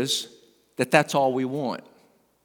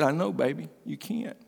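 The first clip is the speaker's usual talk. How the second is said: tender reassurance; 5 dB quieter than usual. Retold or imitated. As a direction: comfort a crying child very softly. Grandpa comforting crying granddaughter.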